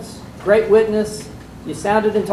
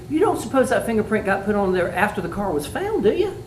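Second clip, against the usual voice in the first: sarcastic question rising sharply at the end; mock lawyer pressing a witness; cross-examiner. Shown as a demonstration. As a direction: needle the witness with a pointed tag. Demo of a pointed cross-exam.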